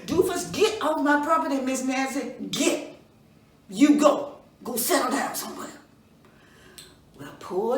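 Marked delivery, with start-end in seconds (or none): 0.1-5.8 angry father. Acted. Father orders Doofus away.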